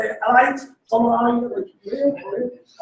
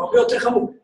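forceful warning; faster than usual. Real, not acted.

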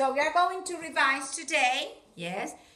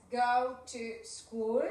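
slowed repeat of the phrase; slow model; much slower than usual. Shown as a demonstration. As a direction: stretch it out for the kids. (más lento)

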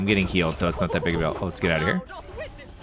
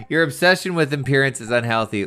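laughing through the line; 4 semitones higher, 4 dB louder than usual. Shown as a demonstration. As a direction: giggle your way through it. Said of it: "I don't know which one".

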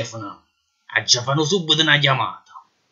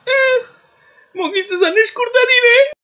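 Neapolitan clown voice; slower than usual. Acted. Detainee whimpers.

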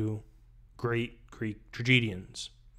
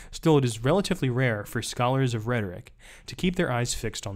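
reading aloud. Acted. Reading the book passage aloud.

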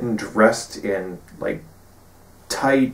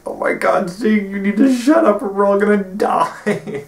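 higher, louder panicked scolding; panicked hush; 11 semitones higher, 4 dB louder than usual. Retold or imitated. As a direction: beg him to shut up, panicking. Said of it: "they're just like".

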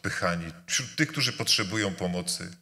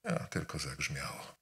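dismissive; 6 semitones lower, 10 dB quieter than usual. Retold or imitated. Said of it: "powiedzieć".

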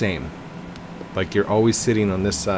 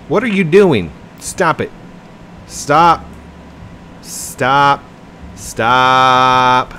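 loud, high calls to stop; urgent raised-voice command; calling a halt; 4 semitones higher, 6 dB louder, much slower than usual. Pretend. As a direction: shout to halt someone, raised pitch.

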